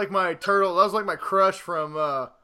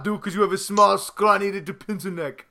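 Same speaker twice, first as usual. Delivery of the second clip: put-on German accent; 3 semitones lower, faster than usual. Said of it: "turned my German to a Russian accent".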